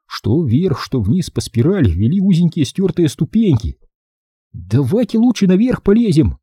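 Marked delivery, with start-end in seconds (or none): 4.5-6.4 put-on higher, begging little boy; pleading boy. A narrator's reading. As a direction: ask nicely, a bit scared. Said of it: "попросил Билли".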